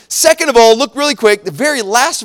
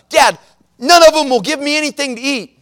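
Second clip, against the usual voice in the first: lightly voiced whining boy; complaining son; 3 semitones higher than usual. Hungry son appeals to his dad, mildly complaining. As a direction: imitate a kid telling on his sisters.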